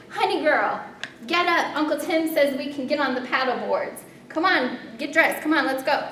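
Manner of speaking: put-on high, loud, urgent Hawaiian-accented call; thick Hawaiian accent. Friend rushes back in to get her up, excited Hawaiian accent. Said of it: "In her thick Hawaiian accent".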